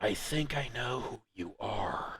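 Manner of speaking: very soft, hushed, confiding half-whisper. A speaker retelling how a man looked around and half-whispered, half-whispering. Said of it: "then he kind of whispers to you".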